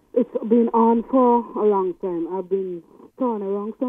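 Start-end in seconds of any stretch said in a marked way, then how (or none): 0.1-2.3 loud and slow down the phone; slow, raised voice for a bad line; to someone hard of hearing. Real, not acted. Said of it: "I'm not hearing you".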